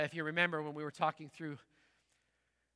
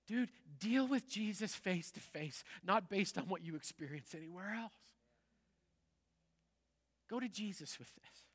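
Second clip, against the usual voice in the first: earnest challenge; 6 dB quieter than usual. Retold or imitated. Pastor challenging a hurt former pastor's kid, retold earnest encouragement. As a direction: urge him gently, retelling the appeal. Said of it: "I challenged him".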